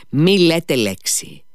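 Μη λέτε λέξη pushed out loud and high; urgent loud plea. A narrator's reading. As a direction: stop her before she answers. Alyosha restrains the quarrel.

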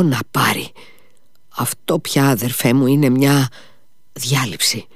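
put-on high, tipsy old man's voice with a giggle; drunk old man. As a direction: play the drunk father, giddy and forgetful. (μεθυσμένος γέρος, ψηλή φωνή με γελάκι)

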